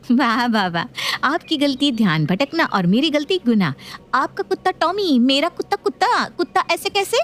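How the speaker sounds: sarcastic. Acted. Daughter-in-law mocking mother-in-law's double standard, sarcastic.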